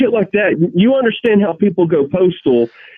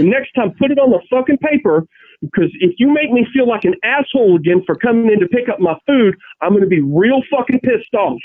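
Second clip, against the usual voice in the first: a lightly voiced cranky old man, higher; a hint of an old grump telling off the clerk; old bogey rant; 5 semitones higher than usual. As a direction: scold him like a grumpy old-timer. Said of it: "like in some old bogey".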